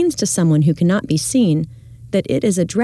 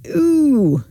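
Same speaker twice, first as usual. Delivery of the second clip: sour-face ooh; 8 semitones higher than usual. A narrator's reading. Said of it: "one of them does so and says".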